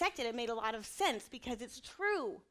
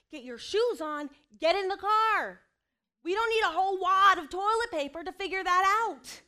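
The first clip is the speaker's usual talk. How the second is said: louder, higher, slowed-down exasperation; exasperated mom; 7 semitones higher, 10 dB louder than usual. Acted. Mom losing patience with her son over shoes, loud and exasperated. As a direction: spell out each order to a dawdling child.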